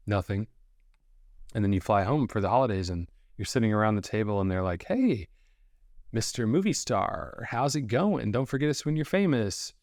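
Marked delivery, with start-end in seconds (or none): 4.9-9.7 teasing relative. Acted. Relative teasing at holiday table.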